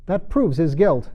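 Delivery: slow, loud, high verdict; stern queen. A narrator's reading. Queen to the court, slowly declaring the knave guilty. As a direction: pronounce it as settled law.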